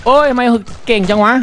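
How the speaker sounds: exasperated outcry. Real, not acted. Gamer losing the final duel, exasperated outcry. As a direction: cry out in disbelief at the enemy's skill.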